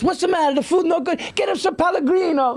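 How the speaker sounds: high, hammed-up waiter voice; fussing waiter. Waiters answering an upset diner, exaggerated fussing. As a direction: fuss over a complaint in a high put-on voice.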